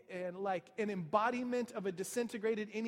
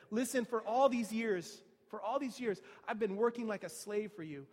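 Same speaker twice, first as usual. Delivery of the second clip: louder resentful complaint; indignant; 4 dB louder than usual. Retold or imitated. Older son confronting his father, loud and indignant. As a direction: vent years of grudges at your father. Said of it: "He says it this way".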